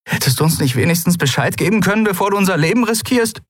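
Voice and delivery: high, rising croak of protest. A narrator's reading. Endriel reproaches Keru with smoke in her lungs, croaking. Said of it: "krächzte sie mit Qualm in den Lungen".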